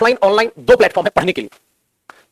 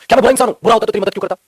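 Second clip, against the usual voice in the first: rhetorical self-question; 3 semitones higher, 4 dB louder, faster than usual. Retold or imitated. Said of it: "खुद ही answer करो".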